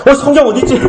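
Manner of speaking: high-pitched mock fluster; flustered searching. Congregant hunting for a Bible on Sunday morning, flustered. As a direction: act out a flustered hunt for something.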